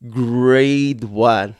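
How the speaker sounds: GRADE with a long, drawn-out A; long A sound. Shown as a demonstration. Teacher modelling the long A sound, stretched GRADE. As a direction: stretch the A in "grade", clear and full. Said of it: "With a long A sound".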